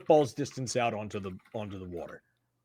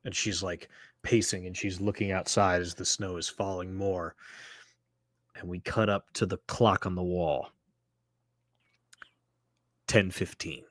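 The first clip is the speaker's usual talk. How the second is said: game master narration; 4 semitones lower than usual. Acted. Game master sets the scene.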